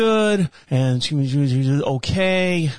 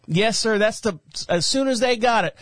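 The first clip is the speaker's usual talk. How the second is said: put-on country girl voice; 4 semitones higher than usual. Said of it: "sounds like a black country girl".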